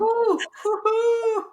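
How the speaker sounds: high, loud whoop; excited cheer. Real, not acted. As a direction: cheer like a fan. Cheering about being early.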